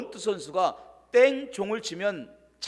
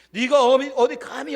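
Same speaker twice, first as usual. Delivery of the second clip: louder, higher furious shout; retold angry father yelling at his son; angry father's yell; 6 semitones higher, 7 dB louder than usual. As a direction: bark it down at the son.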